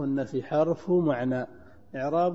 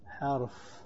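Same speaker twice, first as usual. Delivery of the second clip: too quiet; 9 dB quieter, much slower than usual. Real, not acted. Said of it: "ارفع صوتك".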